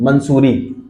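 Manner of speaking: मंसूरी with an added n after the first vowel; nasal n slipped into मंसूरी, "man-soo-ree"; common mispronunciation. Retold or imitated. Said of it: "नहीं कहते".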